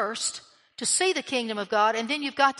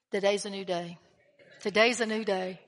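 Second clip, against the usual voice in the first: sweet voice; 4 semitones lower than usual. Retold or imitated. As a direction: quote God gently and reassuringly. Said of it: "It's that sweet voice".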